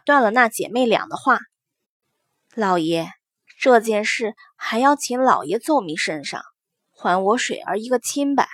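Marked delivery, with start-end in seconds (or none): 2.5-8.5 a mother asking her husband for justice; gentle mother voice. Acted. Mother addresses the master.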